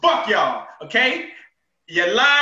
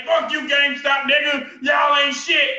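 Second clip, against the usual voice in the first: mock yell out the car window; retold yell; 3 semitones higher, 3 dB louder than usual. Driver yelling at GameStop from the car window, mock yell. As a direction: holler at the store while driving off. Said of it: "I roll my window down".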